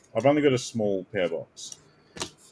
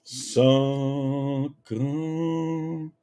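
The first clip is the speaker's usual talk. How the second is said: mock announcer; 3 semitones higher, much slower than usual. Slow drawn-out reveal.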